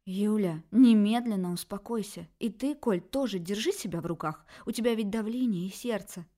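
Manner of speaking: calm them both with force; firm peacemaking. Acted. Mother tries to stop the quarrel, loud and firm. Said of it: "попыталась примирить родных".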